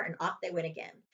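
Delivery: usual speaking voice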